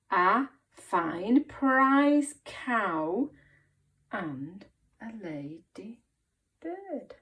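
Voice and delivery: put-on slow, measured reading for children; slow read-along. Shown as a demonstration. Teacher reading the story with pupils, slow read-along. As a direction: read it out slowly, word by word.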